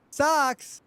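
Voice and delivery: high, delighted shout of joy; light up at the word; excited squeal. Real, not acted. Spotting the socks reward, she cries out in delight.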